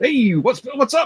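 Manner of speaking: imitated Scottish accent. Retelling a one-second trailer clip of a squat silhouette: imitating a Scottish accent. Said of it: "with a Scottish accent going".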